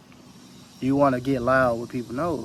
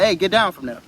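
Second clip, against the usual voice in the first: higher, louder command to a pet; 5 semitones higher, 6 dB louder than usual. Retold or imitated. Telling your pet to get down, loud commanding call. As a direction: call it down sharply like you mean it. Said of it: "You be like".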